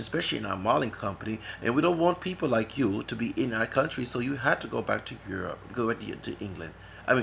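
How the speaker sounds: mock English official, lightly done accent. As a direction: put on a loose English accent to turn someone away. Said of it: "Let me get my English accent".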